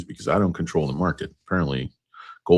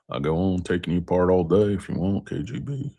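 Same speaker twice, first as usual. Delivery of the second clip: lightly voiced Russian gangster; mock Russian accent; 3 semitones higher than usual. Film card player taunts his opponent, mock Russian accent. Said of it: "you don't sound like no Russian gangster".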